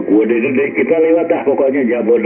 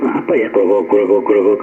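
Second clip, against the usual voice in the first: croaking static noise; imitated radio crackle. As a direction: mimic a bad radio crackling. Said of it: "suaranya nggak serobit".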